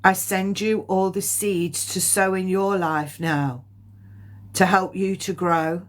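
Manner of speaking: slow, solemn blessing with long pauses; measured, heartfelt medium's relay; channelled spirit message. Acted. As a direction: deliver a loving message slowly, phrase by phrase.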